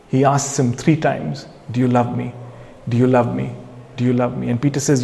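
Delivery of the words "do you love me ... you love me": low, softened repeated question; gentle questioning. Retold or imitated. Jesus asks Peter three times, gentle questioning. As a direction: repeat it tenderly and lower, as retold.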